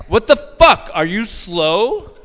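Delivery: hammed-up jeering tough guy; mock macho yelling. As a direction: rib a struggling coworker, loud and rough. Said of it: "It's like".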